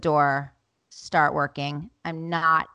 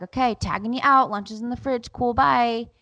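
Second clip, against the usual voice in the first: quick, raised-pitch breezy sign-off; breezy hand-off; 6 semitones higher than usual. Retold or imitated. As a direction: tag out cheerily on the way off. Acts handing off to husband.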